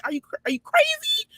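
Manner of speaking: high breathy whisper, mock shocked; incredulous whisper. Real, not acted. Asking callers if they're crazy, whispered. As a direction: whisper it like they lost their mind.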